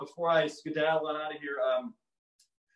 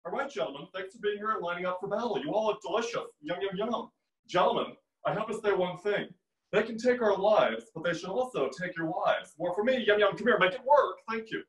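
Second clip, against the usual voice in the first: slightly higher put-on audition voice; film audition impression; 4 semitones higher than usual. Addressing gentlemen lined up for battle, impersonated audition voice. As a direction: play an auditioner rallying the troops with camp poise. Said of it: "his clip for you right now of his audition".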